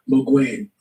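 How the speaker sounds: Mogain said as "moh-GWAYN", falling at the end; demonstrated pronunciation. Shown as a demonstration. Teller repeating the Hebrew word for listeners, Mogain as "moh-GWAYN". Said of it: "That's how it's pronounced".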